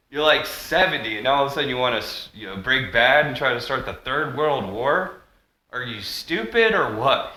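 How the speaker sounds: lightly voiced De Niro scolding; a hint of De Niro mocking a leader; De Niro quote. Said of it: "Using some De Niro".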